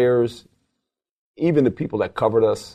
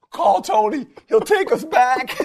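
higher, laughing imitation of a tearful wife; mock tearful plea; 11 semitones higher than usual. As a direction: plead like an upset wife, half laughing. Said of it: "she's already crying".

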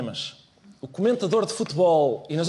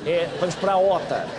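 airline captain announcement. Pretend. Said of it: "é novamente o comandante Araújo Pereira".

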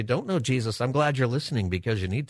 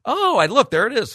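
mock surprise; 12 semitones higher, 8 dB louder than usual. Retelling spotting the receipt line.

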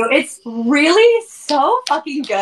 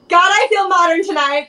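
excited title shout; 5 semitones higher than usual. Real, not acted. Announcing the book title.

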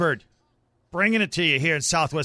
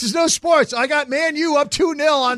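exasperated; 8 semitones higher, 6 dB louder than usual. Real, not acted. Complaining no sports for months.

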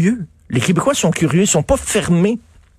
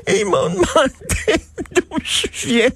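mocking laugh. Mocking whiny complaint with laughter.

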